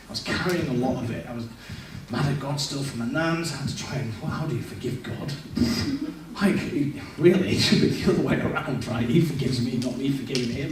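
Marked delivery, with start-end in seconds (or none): 5.4-6.4 short breathy chuckle; breathy laugh. Real, not acted. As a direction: puff out a small laugh. Laughs at forgiving God.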